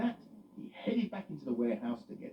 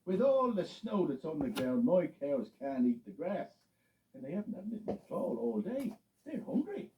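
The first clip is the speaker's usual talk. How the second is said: Farmer Kelly worried; 5 semitones higher, 3 dB louder than usual. Acted. Farmer voiced.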